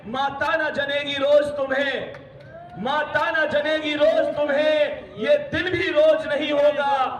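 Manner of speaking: stirring poetry recital to the class; rousing poem recital. Acted. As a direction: declaim the verses with force, repeating each opening line.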